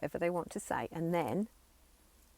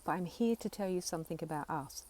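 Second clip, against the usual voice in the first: reaffirming, tender. Shown as a demonstration. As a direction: comfort a frightened child part gently. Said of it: "I'm reaffirming".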